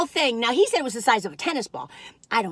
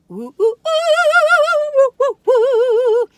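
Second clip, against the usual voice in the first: tasting the chilled strawberry cookie, delighted oohs; 14 semitones higher, 10 dB louder than usual. Real, not acted. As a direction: savor the cookie with rising oohs.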